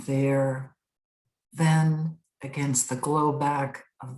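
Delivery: spare, deliberate verse with long pauses; poem reading. Acted. Poet reading the title poem from the collection, deliberate recital. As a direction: recite it line by line, letting each phrase stand alone.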